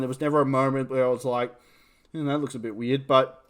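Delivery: talking with something in mouth; words round something in the mouth; mouth full. Real, not acted. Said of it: "something's in my mouth".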